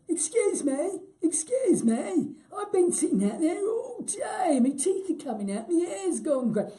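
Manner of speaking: put-on high, loud comic old codger; strange old guy character. Co-stars' silly game between takes, high old-guy voice. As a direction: complain loudly as a hammed-up old man. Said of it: "there were these two old guys".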